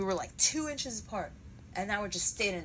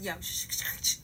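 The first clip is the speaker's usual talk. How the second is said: urgent shushing. Retold or imitated. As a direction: shush them before he overhears. Shushing because Jackson is near.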